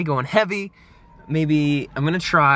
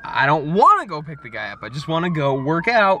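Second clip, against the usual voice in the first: mildly whiny, raised-pitch complaint; reluctant protest; 4 semitones higher, 4 dB louder than usual. Retold or imitated. Man retelling his argument with God, reluctant. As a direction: push back like you really don't want to.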